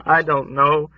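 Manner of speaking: put-on high, pleading old woman's lament. A narrator's reading.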